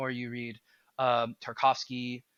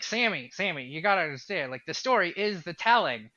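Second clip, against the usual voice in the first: light attempt at a nasally, distinct voice; David Lynch; 3 semitones higher than usual. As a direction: loosely imitate a nasally, lovable speaker, slightly raised. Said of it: "it's in his very nasally, distinct, lovable voice".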